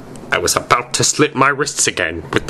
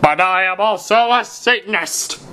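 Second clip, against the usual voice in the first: angrily; 9 semitones higher than usual. A narrator's reading. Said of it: "Hagrid paused angrily".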